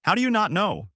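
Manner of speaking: high-pitched, incredulous question; exasperated yell. A narrator's reading. Koby to Luffy who has no destination, exasperated yell. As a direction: cry out high at their cluelessness. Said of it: "Koby yells out".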